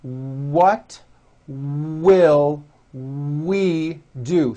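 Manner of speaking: What will we do? spoken very slowly, each W rounded; slow model. Shown as a demonstration. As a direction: stretch it out for the class to repeat. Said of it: "Bring your mouth forward on those W words".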